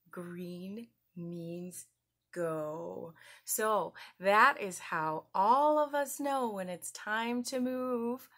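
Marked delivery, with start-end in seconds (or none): 0.1-3.1 soft whispered build-up. Acted. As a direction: hush it before the answer. Whispered reveal.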